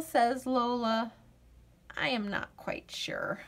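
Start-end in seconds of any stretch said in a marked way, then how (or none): 2.0-3.4 unsure little whisper; hushed and hesitant. Acted. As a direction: breathe it out, not quite sure. Lola unsure, whispered reply.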